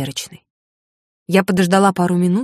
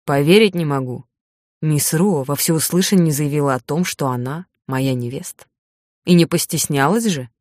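lightly voiced teasing man, lower; man's voice; 3 semitones lower than usual. Narrator voices Eric, lower.

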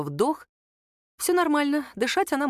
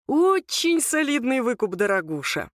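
gloating thug; 5 semitones higher than usual. A narrator's reading. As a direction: savour each word, mocking her. Thug gloats over ransom.

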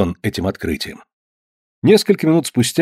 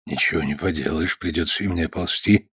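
resigned mutter; 7 semitones lower, 8 dB quieter than usual. A narrator's reading. Father resigned, low.

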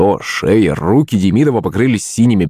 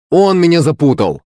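higher-pitched complaint; accusing cry; 6 semitones higher than usual. A narrator's reading. Boy blames rival for his mistake, accusing cry. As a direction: cry out in protest at being tricked. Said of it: "крикнул Коленька".

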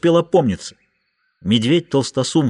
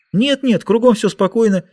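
Julia's voice; 9 semitones higher than usual. A narrator's reading. Julia protests lightly.

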